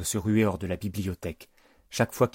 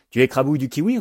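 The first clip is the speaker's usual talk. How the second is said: put-on loud, high child's roar; raised-voice kid's bellow; Britney roaring; 6 semitones higher, 6 dB louder, faster than usual. A narrator's reading. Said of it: "rugit Britney".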